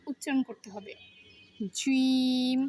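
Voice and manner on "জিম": জিম pushed out with force; forceful jim. Shown as a demonstration. Teacher showing a forceful জিম. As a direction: give জিম some muscle. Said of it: "একটু জোর খাটিয়ে".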